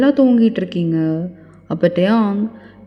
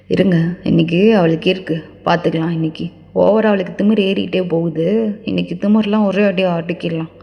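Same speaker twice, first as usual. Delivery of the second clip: low, restrained angry threat; menacing son; 4 semitones lower than usual. Acted. Son vowing to tame her arrogance, low understated anger. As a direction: threaten in a lowered voice.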